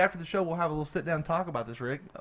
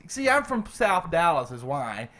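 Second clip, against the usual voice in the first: echoing. Real, not acted. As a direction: echo on the voice. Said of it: "Why do I sound like I'm echoing".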